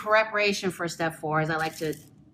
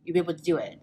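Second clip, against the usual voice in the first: fast, wired caffeinated babble; too much caffeine; 4 semitones lower, 4 dB quieter, much faster than usual. Real, not acted. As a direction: rattle it off, over-caffeinated. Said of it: "I'm so caffeinated right now".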